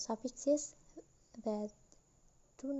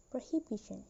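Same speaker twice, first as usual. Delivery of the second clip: prohibition with main stress on bi, the third syllable; stress moved rightward. Shown as a demonstration. Teacher showing a suffix shifting stress, prohibition stressed on bi. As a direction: say prohibition, putting the weight on bi. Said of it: "The stress moved".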